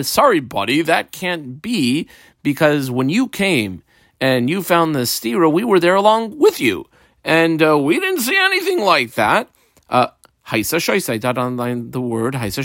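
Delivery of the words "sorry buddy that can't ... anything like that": lightly acted rebuttal, pitch climbing higher; mock-apologetic "sorry, buddy" pushback; witnesses rebutting. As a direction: politely contradict someone, voice rising as you go. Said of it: "they're saying the first guy".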